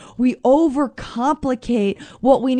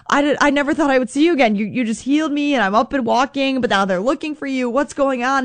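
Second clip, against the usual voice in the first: surprised, excited; 3 semitones higher than usual. Pretend. Healed man meeting Jesus again.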